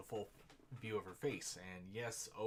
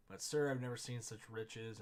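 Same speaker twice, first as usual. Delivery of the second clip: "but sir, I've never seen such riches" said louder in wonder; amazed outburst; 2 semitones higher, 6 dB louder than usual. Shown as a demonstration.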